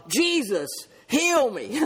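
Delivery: mild imitated cry, rising on "heal me"; retold crying out. Blind man cries out to passing Jesus, retold cry. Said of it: "a blind man who cried out".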